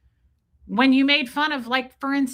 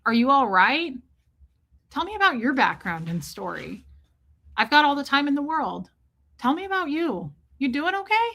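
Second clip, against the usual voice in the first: gently concerned questions, lifting higher toward the end; imagined caring check-in; 4 semitones higher than usual. Acted. Streamer imagining what Aaron never said to her, mildly caring. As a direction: act out a supportive host inviting someone to open up.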